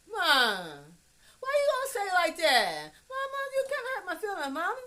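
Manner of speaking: high, loud protest to mama. Acted. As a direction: push the pitch up as you plead your case. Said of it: "mama heard my voice".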